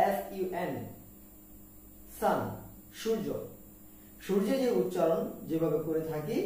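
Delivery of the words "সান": সান said with an open a like sun; সান, rhymes with the sun; correct way. Shown as a demonstration. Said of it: "এর উচ্চারণ হবে". (সঠিক উচ্চারণে সান)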